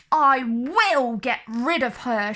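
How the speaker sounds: furious queen snarling a threat; snarled. Acted. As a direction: threaten through the teeth. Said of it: "she snarled".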